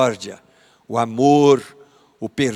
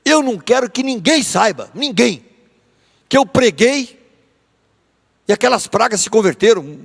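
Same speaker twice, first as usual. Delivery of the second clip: petulant Jonas; 5 semitones higher than usual. Retold or imitated. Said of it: "é como se ele estivesse dizendo".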